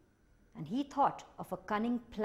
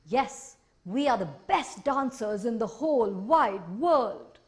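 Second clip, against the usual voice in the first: creature voice; 2 semitones higher, 7 dB louder, slower than usual. Acted. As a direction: sing it out as a proud tiny sprite. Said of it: "said the Minihos".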